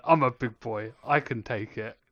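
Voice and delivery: put-on loud, proud little boy; brave kid voice. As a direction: puff yourself up like a kid. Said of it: "in my mind I was like".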